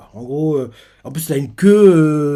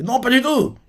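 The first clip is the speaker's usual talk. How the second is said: higher, lightly voiced girl; mock girlish denial; 10 semitones higher than usual. Ase brushes off Zuma's concern, in a high mock voice. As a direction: brush him off in a raised voice. Same line retold.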